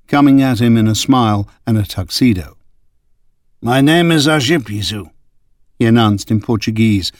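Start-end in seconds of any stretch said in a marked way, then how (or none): 3.6-5.1 lightly voiced German accent, a touch harsh; light German accent on the name; slight German accent. A narrator's reading. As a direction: speak with a faint German edge, a bit higher. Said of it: "harshened by a slight German accent".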